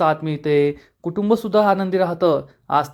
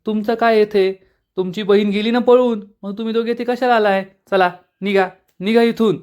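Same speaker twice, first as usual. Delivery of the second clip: angry outburst; 5 semitones higher than usual. Acted. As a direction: snap at the sisters to get out. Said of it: "प्रांजल खूप चिडतो". (चिडून, वरच्या आवाजात हाकलणे)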